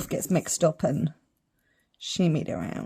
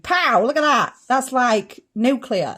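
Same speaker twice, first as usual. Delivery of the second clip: excited; 5 semitones higher, 5 dB louder, slower than usual. Real, not acted. Excited by bright green.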